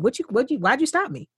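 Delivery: with attitude. Acted. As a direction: act out talking back to a cop with attitude. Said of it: "even with attitude".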